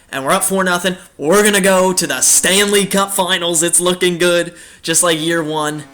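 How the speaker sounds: rally the fans with rising hype; excited. Real, not acted. Gamer telling viewers we're going to the Finals, excited.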